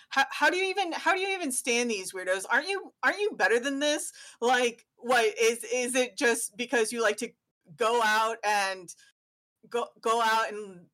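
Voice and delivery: fast, rising scornful tirade; ranting dad. Acted. Dad ranting at his son about his weirdo friends, scornful. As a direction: tear into the kid's friends. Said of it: "he's like".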